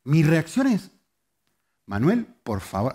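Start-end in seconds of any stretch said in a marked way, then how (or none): 1.9-2.9 restrained scolding with tense timbre; exasperated parent holding back; condemning tone. Retold or imitated. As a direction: scold without shouting. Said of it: "así con este timbre".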